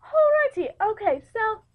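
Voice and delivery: put-on high-pitched English accent. Host getting the game back on track, high English accent.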